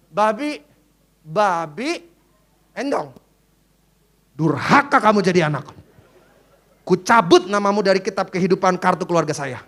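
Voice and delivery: wife threatens to strike name off family card; a hint of scolding wife. Mock wife yelling at a son who won't come.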